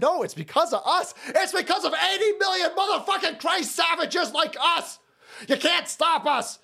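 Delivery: laughing. Real, not acted. Laughing while boasting.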